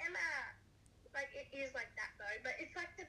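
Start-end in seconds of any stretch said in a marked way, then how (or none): 0.1-0.3 lightly mocked call, pitched a little up; mock TV catchphrase. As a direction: imitate a much-mocked show line. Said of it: "thing they always make fun of".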